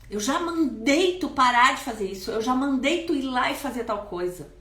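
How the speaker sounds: put-on father scolding his child with rage; wide-eyed angry scolding. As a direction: scold with eyes wide open. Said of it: "E com os olhos arregalados".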